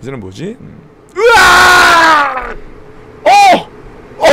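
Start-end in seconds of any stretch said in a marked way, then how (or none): 1.2-2.5 long drawn-out scream; screaming while falling. Real, not acted. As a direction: scream as if dropping. Reacting to octopus-hand video.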